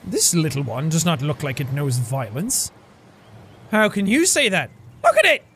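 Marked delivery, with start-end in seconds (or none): 5.0-5.4 high shriek of alarm; panicked. Acted. Hero warns companion about the turtle, high panicked shriek. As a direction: shriek it, pointing in fear.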